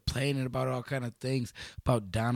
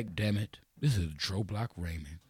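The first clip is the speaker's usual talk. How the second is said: low, gruff mock president address with a loud burst; mock president speech; 6 semitones lower, 4 dB louder than usual. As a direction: play a fed-up president of Beloit. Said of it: "I want you to say".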